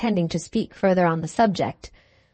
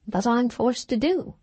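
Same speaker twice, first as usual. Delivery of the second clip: gently; 3 semitones higher than usual. Acted. Caleb gently refuses the pleading Bulstrode, lightly softened. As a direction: let him down kindly, understated. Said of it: "said Caleb still more gently".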